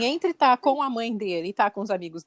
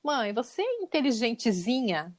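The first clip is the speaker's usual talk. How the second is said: patronizing son; slower than usual. Retold or imitated. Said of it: "assim, exatamente assim, com essas palavras".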